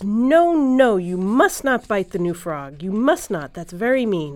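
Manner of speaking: loud, drawn-out "no, no", then firm telling-off; scolding. Acted. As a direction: scold like an upset child in a story. Boy scolds the frog in story.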